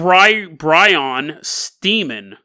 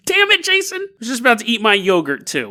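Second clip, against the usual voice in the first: mock listener complaint; 4 semitones higher than usual. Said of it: "you're like".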